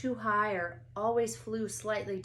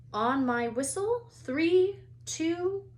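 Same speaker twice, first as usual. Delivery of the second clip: much higher, louder count; loud countdown; 9 semitones higher, 7 dB louder, slower than usual. A narrator's reading. Madame Hooch counts down to takeoff, high and loud. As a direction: count them off.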